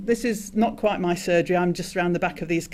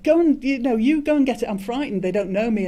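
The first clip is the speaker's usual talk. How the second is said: mock frightened plea; 4 semitones higher, 4 dB louder than usual. Retold plea, man claims fright.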